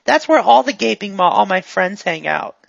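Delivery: lightly voiced eager goon; a hint of a guileless, upbeat helper; chatty, friendly character.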